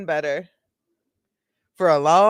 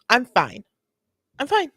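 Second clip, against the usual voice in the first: sudden pretend recovery, pitched up on the repeat; mock drunk composure; 5 semitones higher than usual. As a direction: snap out of the fake crying. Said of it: "she's gonna cycle between".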